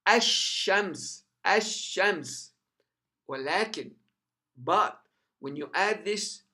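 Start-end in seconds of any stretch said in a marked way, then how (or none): 0.1-2.5 ASH-SHAMS with a long, strong doubled sh; strengthened sheen. Shown as a demonstration. Teacher showing shadda on sheen, sh strengthened. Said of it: "you strengthen the pronunciation of a sheen".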